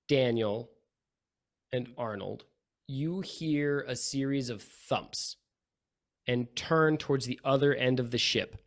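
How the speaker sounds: slow, suspenseful reveal with long pauses; game master narration. Acted. Game master revealing a figure on the ship, slow narration. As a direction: draw out each phrase before the reveal.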